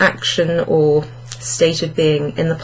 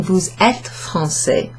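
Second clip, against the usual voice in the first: slow careful model; slower than usual. Shown as a demonstration. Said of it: "instead of saying".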